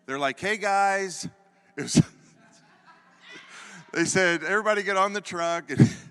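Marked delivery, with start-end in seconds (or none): 0.4-1.3 sweet greeting. Retold or imitated. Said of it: "They were real sweet to us". 4.4-5.7 friendly call. Retold or imitated. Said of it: "They were real sweet to us".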